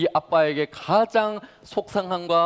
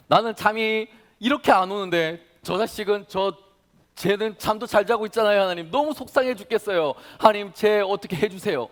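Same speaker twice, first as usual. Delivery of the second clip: higher, louder grumbling prayer; resentful complaint; 7 semitones higher, 6 dB louder than usual. Retold or imitated. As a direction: vent at God about someone sleeping well. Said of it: "라고 이야기를 하면서 이렇게 기도하고".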